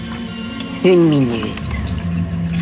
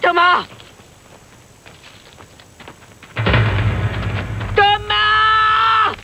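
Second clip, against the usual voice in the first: desperate shouts for help; calling for help; 4 semitones higher than usual. Acted. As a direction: yell out in panic, hanging on. Appel à l'aide, suspendu dans le vide. (appels au secours désespérés)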